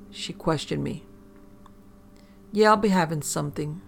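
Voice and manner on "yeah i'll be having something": put-on failing RP accent. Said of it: "my accent failing".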